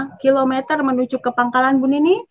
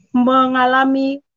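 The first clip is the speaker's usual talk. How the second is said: usual speaking voice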